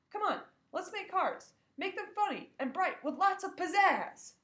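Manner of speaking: high, bright teacher coaxing the class; upbeat teacher pushing fun; cheery teacher voice. Acted.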